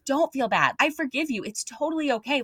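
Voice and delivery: high-pitched, earnest forgiving tone, retold; compassionate reassurance. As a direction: soothe someone who feels guilty, lightly acted. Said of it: "overcome with just compassion".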